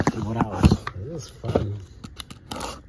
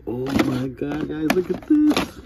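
slow thrilled exclamation; 3 semitones higher, slower than usual. Real, not acted. Finds a chase car.

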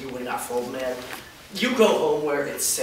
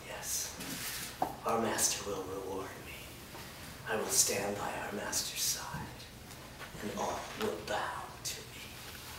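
gloating reverie; 3 semitones lower, 7 dB quieter than usual. Acted. Servant dreams of power.

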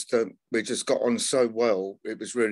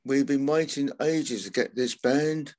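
higher, drawn-out mock stage announcement; mock compere; 4 semitones higher than usual. Musician retelling a clueless compere's announcement, mock showman. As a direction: ham up a compere who forgot the band's name.

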